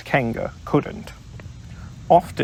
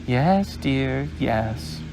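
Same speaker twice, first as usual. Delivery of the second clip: soothing Kanga; much slower than usual. Acted. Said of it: "said Kanga soothingly".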